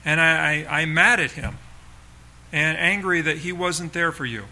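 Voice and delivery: fighting to keep anger in check as it rises; grieving pastor at a funeral, openly angry at the absent father; real anger. Real, not acted. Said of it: "I don't know if you can hear it in my voice, but I'm trying not to be too angry".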